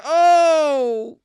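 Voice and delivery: high, loud startled "Oh!"; startled yelp. Retold or imitated. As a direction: yelp in sudden shock. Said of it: "I said".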